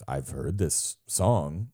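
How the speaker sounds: slow, drifting into a hint of French accent; a light French accent. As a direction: slip a French lilt into the words. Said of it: "I slipped".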